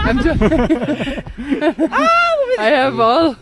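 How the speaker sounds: giggling through the words; can't stop laughing mid-sentence. Real, not acted. Laughing at own hands on video.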